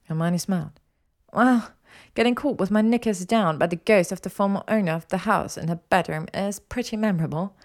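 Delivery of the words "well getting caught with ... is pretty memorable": higher-pitched teasing jeer; cheeky, mocking comeback. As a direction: needle him with the memory. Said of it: "she jeered".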